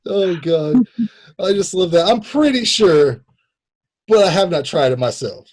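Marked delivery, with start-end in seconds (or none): 2.1-5.5 mock suspect quote.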